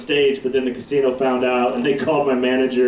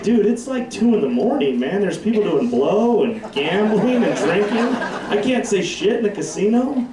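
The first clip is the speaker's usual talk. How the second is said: higher, disbelieving pushback; incredulous protest; 6 semitones higher than usual. Retold or imitated. Arguing with the pit boss over a curse word, incredulous. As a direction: argue it's absurd. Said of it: "I was like".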